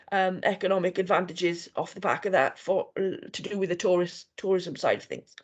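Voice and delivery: hoarse, fading voice; losing her voice. Real, not acted. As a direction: voice giving out. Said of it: "Sorry, I'm losing my voice".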